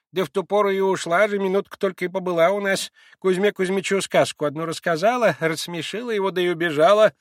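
put-on high old woman's voice; old servant woman. A narrator's reading. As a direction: chatter on as the old maid.

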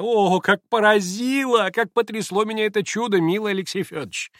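высоко, нараспев, восторженно ахая; ахать, будто чудо потрясло до глубины души; восторженная дама. Acted. Хохлакова восторженно причитает. (восторженно, высоким голосом)

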